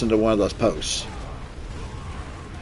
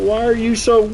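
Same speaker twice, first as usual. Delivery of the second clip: high, exasperated disbelief; 12 semitones higher, 4 dB louder than usual. Retold or imitated. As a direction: squeak out the question in disbelief. Reacting to eager doctors.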